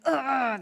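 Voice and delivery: short growl of frustration; mock angry growl. Strong-willed child not getting their way, mock frustrated growl.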